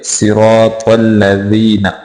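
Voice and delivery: सिरातल drawn out with full, heavy "raa"; slow, full-mouthed सिरातल; lengthened syllables. Shown as a demonstration. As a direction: stretch सिरातल slowly. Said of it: "तीनों को लंबा करके पढ़ेंगे".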